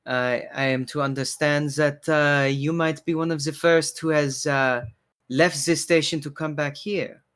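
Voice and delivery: lightly voiced barkeeper, hesitant polite questioning; courteous bartender, curious. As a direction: ask delicately as the bartender, with halting pauses.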